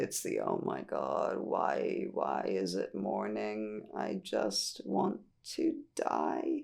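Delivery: very low, soft, crackling creaky vocal fry. Demonstrating the M0 register, vocal fry. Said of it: "[speaks in fry]".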